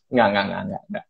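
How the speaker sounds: low, softened string of denials; self-calming. Retold or imitated. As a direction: talk yourself down quietly. Talks himself down from anger. (menenangkan diri dengan suara pelan)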